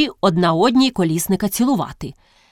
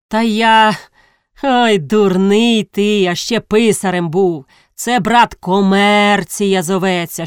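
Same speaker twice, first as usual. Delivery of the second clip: louder, drawn-out scornful lecture; mocking rebuke; 4 dB louder, slower than usual. Колісник schools the former clerk in commerce, mocking rebuke. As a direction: stretch the key words to belittle him.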